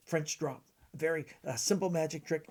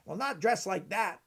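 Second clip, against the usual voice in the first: lightly impersonated magician, pitched higher; Vernon; 4 semitones higher, 4 dB louder than usual. Acted. Magician judging the kid's clothes, lightly impersonated. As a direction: rebuke the kid in a slightly put-on voice. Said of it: "this is my Vernon impression".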